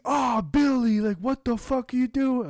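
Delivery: loud, high-pitched exclamation as the neighbor; British neighbor impression. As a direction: call out to the dog like a British guy. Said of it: "he's, like, a British guy".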